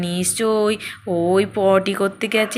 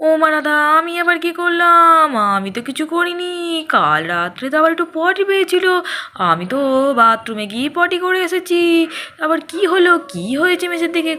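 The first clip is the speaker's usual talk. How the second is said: high-pitched flustered denial; indignant high voice; 6 semitones higher, faster than usual. Acted. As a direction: protest your innocence in a raised voice.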